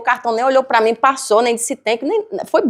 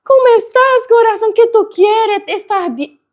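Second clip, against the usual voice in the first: put-on Hispanic accent; 10 semitones higher than usual. Cashier greeting her warmly in a Hispanic accent, much higher. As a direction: coo in a Hispanic accent, lilting. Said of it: "Porque ela é hispana".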